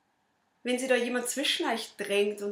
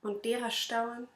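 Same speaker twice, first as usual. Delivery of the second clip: measured verse delivery with long pauses; poem recital; slower than usual. Acted. Reciting own poem to an audience, measured poem recital. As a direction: recite the rhymes line by line, lightly dramatised.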